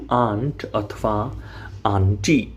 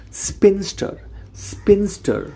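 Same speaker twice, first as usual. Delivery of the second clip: say it with me; 7 semitones higher than usual. Shown as a demonstration. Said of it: "બોલો".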